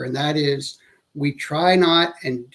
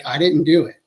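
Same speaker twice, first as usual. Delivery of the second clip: emphatic denial; 4 dB louder than usual. Shown as a demonstration. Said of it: "which sounds like".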